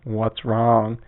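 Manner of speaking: imitating a toneless, unmoved host; low-key question on one note; monotone. Mocking the host's question to a crying contestant, monotone. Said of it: "Fucking mono".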